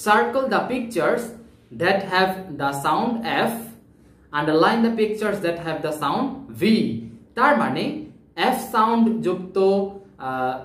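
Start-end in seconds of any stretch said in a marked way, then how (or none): 0.1-6.7 reading the instruction very slowly, word by word; teacher reading the exercise line at a crawl; slow read-aloud. Shown as a demonstration. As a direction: spell out the task slowly for young learners. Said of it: "এবার কেতে বলা হচ্ছে কি দেখো".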